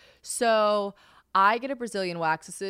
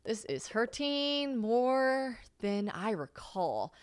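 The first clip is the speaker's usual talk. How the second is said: hushed, slow pained whisper; whispered wince; 3 semitones higher, 4 dB quieter, much slower than usual. Retold or imitated. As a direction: whisper it through the sting. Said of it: "I'm like".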